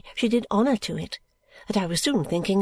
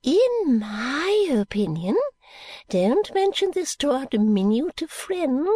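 mysterious secret; 3 semitones higher than usual. Acted. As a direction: whisper scandal into her ear. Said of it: "with her most mysterious look".

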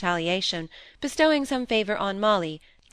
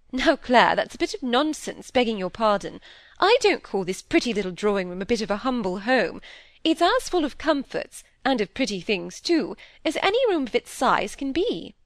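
lively aristocratic lady, mildly scolding; lightly voiced, outspoken peer's daughter; brisk lady visitor; 4 semitones higher than usual. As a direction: contradict an old friend with airy confidence. Lady Harriet contradicts Clare.

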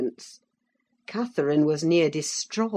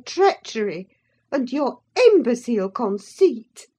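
high, loud outraged tirade; furious scolding; 10 semitones higher, 8 dB louder than usual. A narrator's reading. Nelly furiously berating Linton for his treachery. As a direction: tear into the wretch.

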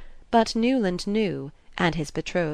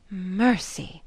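moaning; 2 semitones higher than usual. A narrator's reading. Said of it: "moaned Missus Archer".

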